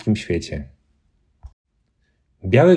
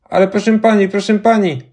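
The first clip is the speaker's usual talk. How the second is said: put-on high, pleading little boy; a boy begs the lady; 10 semitones higher than usual. A narrator's reading. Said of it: "zaczął jeden z chłopców".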